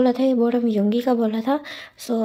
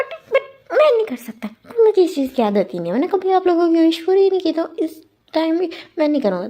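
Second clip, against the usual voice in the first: whiny spoiled son; 5 semitones higher than usual. Retold or imitated. Spoiled son whining back.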